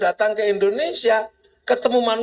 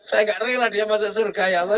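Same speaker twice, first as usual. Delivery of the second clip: mock tearful goat; faster than usual.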